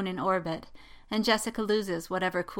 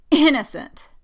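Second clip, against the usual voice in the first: high, loud, incredulous burst; coughed disbelief; 7 semitones higher, 12 dB louder than usual. A narrator's reading. Poe scoffs at Jess's description of Rey, incredulous. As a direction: choke on the word in disbelief. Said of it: "Poe coughs".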